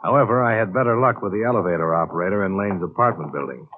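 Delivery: dry, matter-of-fact case narration over music; noir detective narration. A narrator's reading. Investigator recounting his case to the audience, dry noir narration. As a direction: report the case to the listener like an expense log.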